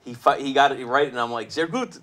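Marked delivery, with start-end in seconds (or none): 1.5-2.0 German phrase. Retold or imitated. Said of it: "saying something in German".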